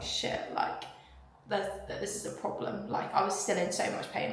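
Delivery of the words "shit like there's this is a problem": hushed worry. Retold or imitated. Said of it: "I was like".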